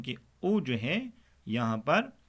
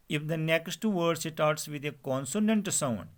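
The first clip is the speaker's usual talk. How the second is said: slow dictation; 3 semitones higher, much slower than usual. Shown as a demonstration. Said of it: "slowly dictating the rule".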